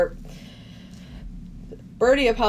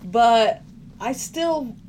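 mock torn wife; 3 semitones higher than usual. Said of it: "She's going".

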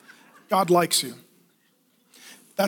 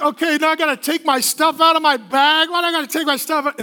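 put-on whiny kid; 4 semitones higher than usual. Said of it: "then they're like".

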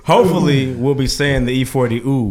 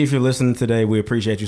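big hall echo; much faster than usual. Real, not acted. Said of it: "Sorry about the reverb".

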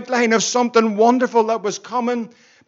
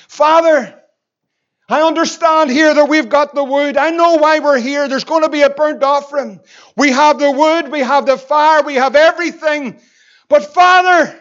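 put-on young son asking; 3 semitones higher, 5 dB louder than usual. Little son asks his father Abraham where the lamb is, louder and pleading. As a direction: plead with your father, rising in urgency.

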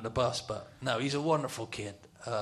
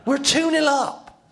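very high, drawn-out shout; elated shout; 12 dB louder, slower than usual. Retold or imitated. Player overjoyed at the lead, shouting slowly. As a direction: shout the score slowly in amazed joy. Repeats score, more elated.

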